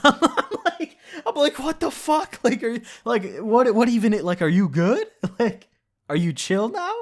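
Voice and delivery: high-pitched, laughing incredulous questions; cracking up while retelling his own bewilderment; laughing disbelief. Real, not acted. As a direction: stammer the questions out through laughter. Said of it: "I'm laughing".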